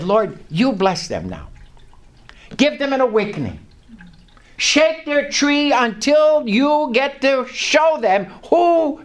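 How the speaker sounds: retold heartfelt prayer; fervent prayer. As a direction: call on God with building fervor. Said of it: "a whole different category of prayer".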